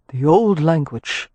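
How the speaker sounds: lightly voiced, thoughtful man; slow, musing Rowan. Rowan hearing Merrypen's language, slow and musing. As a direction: savor the words slowly.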